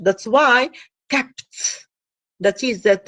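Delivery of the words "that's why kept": kept said very slowly, final p held unreleased; teacher demonstrating "kept" slowly; slow demo of kept. Shown as a demonstration. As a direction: draw out "kept" slowly so the p is blocked. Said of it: "And the R is blocked".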